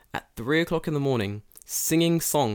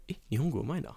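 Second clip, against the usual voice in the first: impressed cop; 2 semitones higher, 6 dB quieter, much faster than usual. Retold or imitated. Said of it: "First thing he said".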